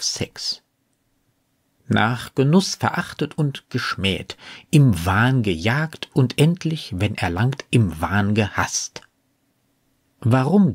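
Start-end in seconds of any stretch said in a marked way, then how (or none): 1.9-9.0 measured reading of verse; quoted poetry, more deliberate than commentary; poem recitation. Acted. Quotes the sonnet between commentary.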